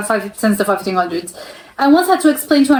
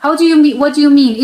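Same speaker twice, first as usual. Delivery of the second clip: indignant and louder, reading out an angry customer; irate customer; 4 semitones higher, 4 dB louder than usual. Acted. Angry tourist demanding answers from tech support, read louder. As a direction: push back hard, like a customer who can't believe it. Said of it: "He became irate".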